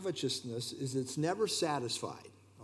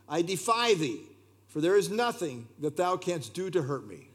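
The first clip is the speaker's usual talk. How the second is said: raised, bold defiance; defiant saint; 3 semitones higher than usual. Retold or imitated. Chrysostom answers the Roman emperor, boldly defiant. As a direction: stand firm before the emperor. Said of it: "emperor and Chrysostom dialogue".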